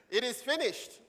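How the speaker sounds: high-pitched, declaimed announcement; scripture proclamation. Acted. Preacher gives the church the sixth word, proclaimed high.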